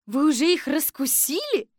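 high, emphatic question to the chief; loud high-voiced assistant; Kolbochkina asking. A narrator's reading. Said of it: "спросила Колбочкина".

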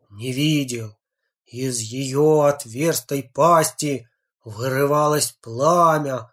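slow, lightly sinister storyteller; ominous reading voice. Acted. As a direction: read it like a spooky tale. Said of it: "начал читать зловещим голосом".

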